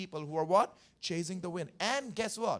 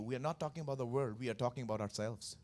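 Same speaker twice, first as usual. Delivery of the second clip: softer and lower, intimate; quiet confiding; 5 semitones lower, 5 dB quieter, faster than usual. Acted. Preacher quietly turning the point on the listeners, soft and low. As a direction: lean in and say it low.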